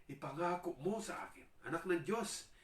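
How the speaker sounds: high, loud pleading; demon begging Jesus. Acted. Demon pleading with Jesus not to torment it, high and loud. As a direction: beg desperately. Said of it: "sabi niya".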